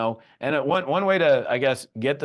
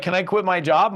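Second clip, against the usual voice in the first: eager wife; 7 semitones higher, 4 dB louder than usual. Retold or imitated. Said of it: "And she's like".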